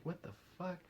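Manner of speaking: high, very soft exclamation; small, hushed voice of disbelief. Retold or imitated. Own stunned reaction, said under breath.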